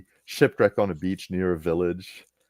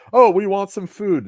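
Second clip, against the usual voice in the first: mock bandit voice; 12 semitones higher, 7 dB louder than usual. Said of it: "bandits demanding food".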